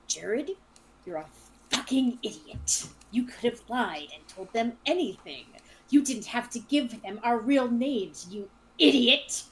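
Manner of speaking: choked, hissing scold, partly whispered; spat-out growl. Acted. Luke, unnerved, berates his young companion, spitting out the words. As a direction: spit it out under the breath, punching the last word. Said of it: "kinda spits out to his companion".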